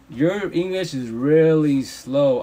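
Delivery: slow, deliberate, drawn out. Shown as a demonstration. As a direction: spell it out word by word. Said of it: "I don't speak really slow".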